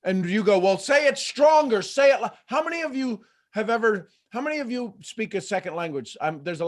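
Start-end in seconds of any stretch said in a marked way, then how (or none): 0.6-2.3 urging louder. Acted. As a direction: egg them on with raised pitch. Acting out demand for stronger statement.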